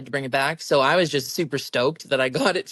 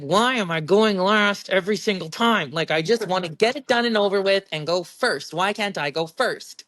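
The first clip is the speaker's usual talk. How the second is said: frustrated whine; 4 semitones higher than usual. Retold or imitated. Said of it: "I was frustrated".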